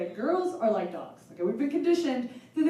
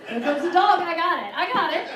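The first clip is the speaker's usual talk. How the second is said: eager dog; 7 semitones higher, 7 dB louder than usual. Retold or imitated. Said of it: "dog rushing in".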